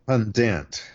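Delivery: "pundant" said slowly as PUN-dant; extra N. Shown as a demonstration. Showing another error, "pundant" slowly with extra N. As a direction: stretch out "pundant", N before the final T. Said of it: "they put an extra N in".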